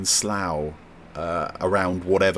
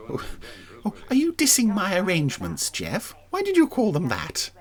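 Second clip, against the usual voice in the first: mock offence; 10 semitones higher than usual.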